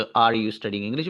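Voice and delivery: slow, word-by-word "Are you studying English?" while writing on the board; slow dictation. Shown as a demonstration. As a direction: dictate each word slowly for the class. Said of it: "बन गया". (बोर्ड पर लिखते हुए धीरे-धीरे बोलना)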